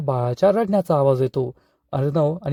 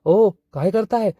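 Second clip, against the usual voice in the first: higher, slow alarmed cry; alarmed shout; 5 semitones higher, slower than usual. Acted. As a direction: call out in shock at what she sees. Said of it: "जोरात ओरडते". (घाबरून जोरात ओरडणे)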